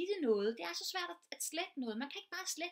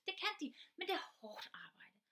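whispered aside; 6 semitones higher than usual. Real, not acted. Aside correcting herself.

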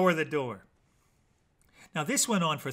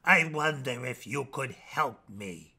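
sad and pathetic; 4 semitones lower than usual. Acted. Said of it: "in his most sad and pathetic voice".

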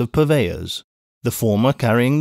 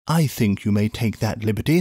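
smiling answer; 3 semitones lower than usual. Acted. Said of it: "the doctor answered, smiling".

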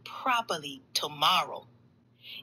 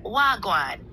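put-on Jamaican accent; 3 dB louder than usual. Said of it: "your Jamaican accent".

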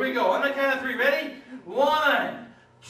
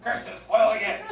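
mustache twirling villain; 6 dB louder than usual. Acted. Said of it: "very famous sketch ... The Perils of Pauline".

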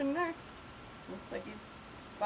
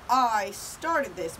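loud, slow moan; 6 dB louder, slower than usual. A narrator's reading. Pipsqueak owning up to the fight, moaning. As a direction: draw it out as a guilty moan. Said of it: "moaned Pipsqueak".

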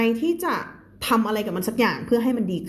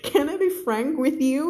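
slow, higher demo of the phrase; slow example phrase; 5 semitones higher, much slower than usual. Shown as a demonstration. Teacher modelling a phrase slowly for her class. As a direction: spell it out slowly for learners. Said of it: "ขอพูดตรงๆเลยนะเธอ".

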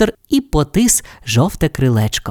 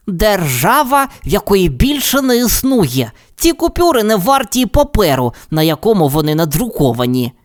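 canary voice; 7 semitones higher than usual. Acted. Tweety tells the cat the money is worthless, high and gentle. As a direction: gently break the bad news.

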